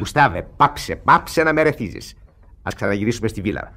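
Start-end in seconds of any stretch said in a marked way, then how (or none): 0.0-2.1 louder, slower exasperated scolding; irritated boss. Acted. Peterbono scolding Gustave, exasperated. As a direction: cut him off sharply.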